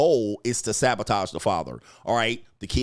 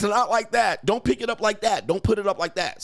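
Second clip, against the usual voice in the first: higher, fussy nagging, imitating the wife; 9 semitones higher than usual. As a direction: mimic the wife nitpicking every move. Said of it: "she says".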